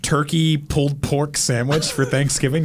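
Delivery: ordinary talk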